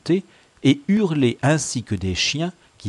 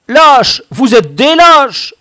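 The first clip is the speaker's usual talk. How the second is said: very high, shouted insult; angry retort; 15 dB louder, slower than usual. A narrator's reading. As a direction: fling it back at the accusers. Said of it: "riposta Baccaillé". (riposter en criant, d'une voix aiguë)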